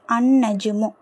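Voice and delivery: doubled N in "அன் நஜ்மு", no L; alif joined to nun. Shown as a demonstration. Teacher shows alif joining nun, doubled N in "அன் நஜ்மு". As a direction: run A straight into N in "அன் நஜ்மு". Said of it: "டைரக்டா அலிஃப் வந்து நூனோட இணைக்கப்படுது".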